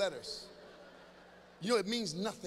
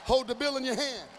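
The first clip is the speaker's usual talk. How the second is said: excited urging; 3 semitones higher, 4 dB louder than usual. Acted. Urging teens, big excited.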